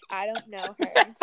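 a famous singer's dismissal. Retold or imitated. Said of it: told to do the singer's line yourself.

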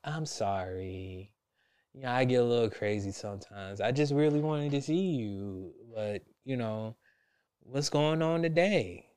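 a hint of a sweet-talking girlfriend, soft; calm as shit. Girlfriend on the phone apologizing, calm and soft. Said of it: "calm as shit".

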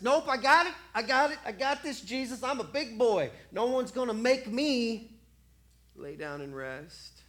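a proud man refusing to stop; stubborn refusal. Acted.

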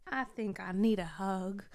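lightly voiced cartoon sidekick; a half-hearted go at the movie donkey; hint of a talking-donkey character, barely put on; poor Donkey impersonation. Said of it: "that was not a very good Donkey impersonation".

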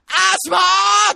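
long, very high full-out yell; huge shout. Retold or imitated. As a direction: bellow the name like calling a stage hero. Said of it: "俺超大声で叫んだら".

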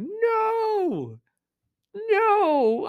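high yelling no at the dog; shouted no. Retold or imitated. Owner yelling at dog eating trash, high shout. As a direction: yell it sharply to stop her. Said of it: "I'm like".

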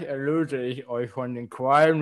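Qualen mumbled around a cork in the mouth. Real, not acted. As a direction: say Qualen with a cork between the teeth. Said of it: "Sag bitte noch mal Qualen".

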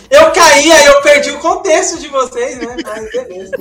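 laughing. Real, not acted. Rejoining call while laughing.

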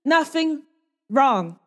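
high, slow, stammering denial; caught-out tiefling pleads innocence, stammering high; awkward denial. Acted. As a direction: fumble through an innocent plea. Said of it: "I'm gonna awkwardly just".

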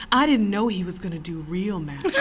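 offended woman telling the manager about the magician; mock indignation. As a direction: retell her outrage while barely holding in a laugh. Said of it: "And she goes".

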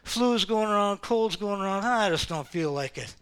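low, soft, mock-weary whine; imitating a churchgoer excusing himself, softly; tired excuse. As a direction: sound worn out and reluctant. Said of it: "Anybody said that lately".

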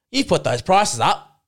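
mock the customer yelling about prices; irate shopper snapping at the checkout; retold angry yell. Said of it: "You screamed at me saying".

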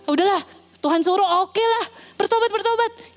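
high, offhand "bertobat" tossed out carelessly; careless, half-hearted. Acted. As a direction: shrug it off like a chore. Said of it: "Kayaknya asal aja dia ngomong".

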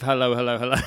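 bobby greeting. Shown as a demonstration. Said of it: "they have to start each sentence with".

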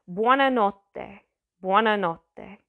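careful, drawn-out Italian accent; best Italian accent. Shown as a demonstration. Teacher showing the next greeting, careful Italian accent. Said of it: "I'm gonna do my best".

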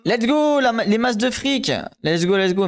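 high, thrilled cheering; excited donation thanks. Real, not acted. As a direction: celebrate the money rolling in. Streamer cheers incoming subs.

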